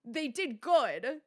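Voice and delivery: loud, slow, high-pitched backpedal; hasty cover-up. Retold or imitated. Caster covers up a trash joke, exaggerated backpedaling. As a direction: drag out an over-earnest, awkward retraction. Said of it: "I tried to cover up so hard".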